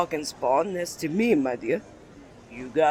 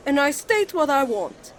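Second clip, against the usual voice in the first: defensive outburst; 7 semitones higher, 5 dB louder than usual. Acted. Flustered defensive retort.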